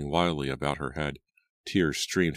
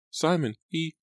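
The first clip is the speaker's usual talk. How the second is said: shocked stammer; 13 semitones higher than usual. A narrator's reading. Pointing at the boat, shocked.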